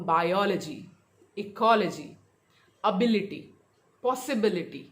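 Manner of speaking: bi-O-logy, e-CO-logy, a-BIL-ity, possi-BIL-ity; word-list demo of बायोलॉजी, इकोलॉजी, ability, possibility with antepenultimate stress; third-last-syllable stress. Shown as a demonstration. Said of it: "stress on the third last syllable".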